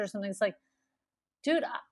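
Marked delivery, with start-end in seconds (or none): 1.4-1.8 exasperated retort. Retold or imitated. Acted retort to bossy manager.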